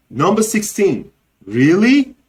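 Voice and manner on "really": high, loud rising disbelief; surprise. Shown as a demonstration. Teacher showing a surprised reaction, questioning surprise. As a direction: ask it as if taken aback. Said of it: "It's like a surprise, right?".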